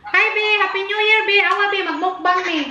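high bright call-out; excited greeting. Real, not acted. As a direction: greet the family over the phone. Greeting family on video call.

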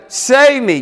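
high-pitched urgent plea; acted shout for help. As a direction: call out as if drowning. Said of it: "he shouted".

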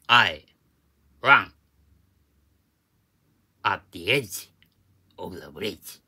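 English word by word, punched loud at first; mock Yokohama dialect demo. Shown as a demonstration. Teacher passing English off as Yokohama dialect, punched deliberate words. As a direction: blurt each chunk separately, easing off at the end. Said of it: "横浜弁で言うと".

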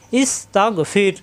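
slow ইস, তাগ, ফির, each closed syllable apart; separated syllables. Shown as a demonstration. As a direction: sound out ইস তাগ ফির one syllable at a time. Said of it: "প্রত্যেকবার ভিন্ন ভিন্ন". (ইস তাগ ফির আলাদা আলাদা করে)

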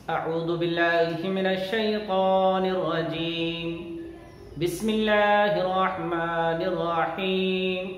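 slow, melodic tajweed chant; measured, sustained recitation on a steady note; Quran recitation. Shown as a demonstration. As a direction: chant it with long, drawn-out vowels. Quran recitation for pupils to repeat.

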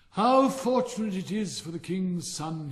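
loud, high, slow haughty rocket; conceited rocket, slow and grand; slow distinct rocket. A narrator's reading. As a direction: dictate it like memoirs. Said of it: "very slow, distinct voice".

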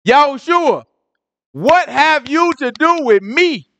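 high, slow demon pleading; possessed man crying out to Yahushua, high and slow; evil spirit voice. Acted. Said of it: "evil spirit talking".

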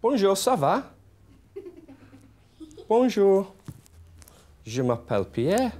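high-pitched puppet greeting a class; French puppet. Acted. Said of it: "Pierre the Puppet ought to teach".

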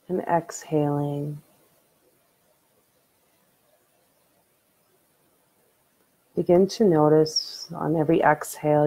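unhurried meditation guide, long pauses between phrases; guided meditation. Acted. Streamer leads viewers in late-night breathing meditation, calm guiding voice.

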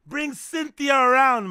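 loud hype. Real, not acted. Loud hyped demand, slowed.

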